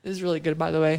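talking while exhaling smoke; words out on a smoky breath; smoke exhale. Real, not acted. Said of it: "let me take a hit of this".

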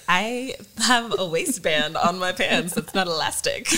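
slow, deliberate mock boast; mock proud reply. Wife answers husband's compliment, slow mock pride. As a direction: savor the joke slowly. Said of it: "And I was like".

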